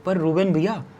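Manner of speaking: imitated plea with stretched name; plead, drawing out the words of appeal; pleading local host. Host begging Ruben to see sense, imitated plea. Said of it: "वो पता है क्या बोलते हैं मुझे".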